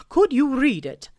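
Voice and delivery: high, loud owl voice, a touch worried; anxious Owl. Acted. Owl hiding he can't spell, anxious owl voice. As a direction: ask nervously in a hooting voice.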